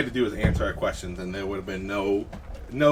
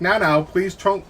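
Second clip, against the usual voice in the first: higher, breezy warning; nonchalant; 8 semitones higher, 4 dB louder than usual. Acted. Player with spell readied warns bandit, nonchalant. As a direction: warn them lightly, as if no big deal. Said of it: "You're all nonchalant".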